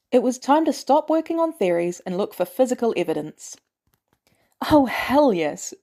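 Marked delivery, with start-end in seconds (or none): 4.7-5.7 slow, breathy whisper of delight; a slow whispered triumph; gleeful whisper. Acted. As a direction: savour it under your breath. Nat gloats over the prank footage.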